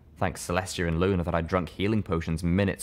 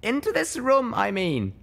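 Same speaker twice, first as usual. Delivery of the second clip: quick interruption. Acted. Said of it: "I interrupted quickly".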